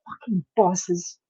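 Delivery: slow, breathed whisper; hushed, slow grumble to oneself; weary mutter. Acted. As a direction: mutter it under your breath, drawn out. Voicing Runa's weary muttered reaction.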